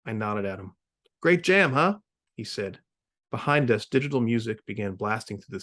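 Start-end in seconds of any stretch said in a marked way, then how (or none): 1.2-2.0 enthusiastic. Acted. Cyclonic at party.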